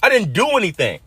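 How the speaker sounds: high-pitched protest, retold; frustrated yell. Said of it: "and I yelled".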